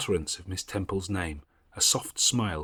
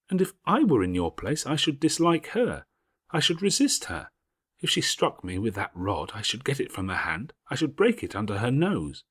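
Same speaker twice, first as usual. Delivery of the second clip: put-on higher, louder girl's voice, indignant; a fierce schoolgirl who won't be cowed; young Jane, defiant; 6 semitones higher, 4 dB louder than usual. Jane to Helen by the fire, higher and indignant.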